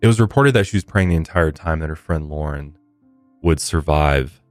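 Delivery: measured podcast story read; true-crime narration. Real, not acted. Host recounting a shooting to listeners, measured narration. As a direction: read the case account clearly and evenly.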